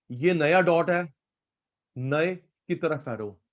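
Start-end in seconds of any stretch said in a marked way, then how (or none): 2.0-3.4 slow dictation. Shown as a demonstration. Teacher repeats rule for copying.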